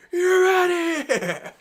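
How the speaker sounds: high, loud, drawn-out umpire holler; ref's ejection call. Retold or imitated. Ref ejecting a player from the game, hollered call. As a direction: throw the player out, stretching it slowly. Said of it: "the ref goes".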